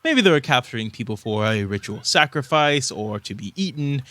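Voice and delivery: understated sly speculation; slightly sly. Acted. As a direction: slip in a dark suggestion with a touch of slyness. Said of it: "he says this a little bit slyly".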